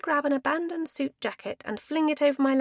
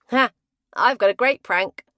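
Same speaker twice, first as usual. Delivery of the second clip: excited; 9 dB louder than usual. Acted. Guy excited by prank idea.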